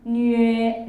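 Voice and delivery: 뉴에 said loud and clear, gliding to 에; model syllable. Shown as a demonstration. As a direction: call out 뉴에 for the class to copy. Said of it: "뉴에 이렇게 들어가셔야 돼요". (크게 또렷한 뉴에 시범)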